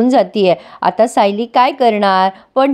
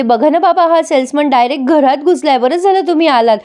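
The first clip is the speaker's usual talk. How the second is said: whiny complaint to dad; 4 semitones higher than usual. Retold or imitated. Priya complains to her father.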